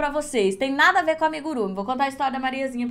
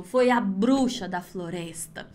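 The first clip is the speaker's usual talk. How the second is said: put-on scared child; 5 semitones lower, much slower than usual. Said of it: "E ela falou".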